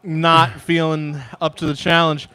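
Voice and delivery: laughing. Real, not acted. Laughing through spicy mouth pain.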